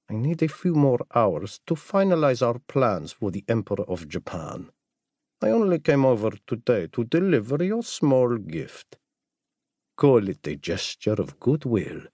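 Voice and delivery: lightly voiced assassin, composed; a hint of a character voice for the visitor. Jamal explaining his gift to the doctor, lightly voiced character.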